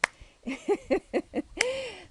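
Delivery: high, loud burst of laughter; real laugh. Real, not acted. Nun recalls her friend's cross hitting the floor, high laughing. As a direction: laugh out loud at your own story.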